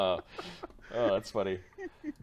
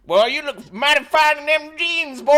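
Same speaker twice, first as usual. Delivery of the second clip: high, louder hammed-up American Southern accent; mock Southern drawl; 8 dB louder than usual. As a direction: flirt like a cartoon cowboy in a Southern accent. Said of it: "another group of Europeans out there going".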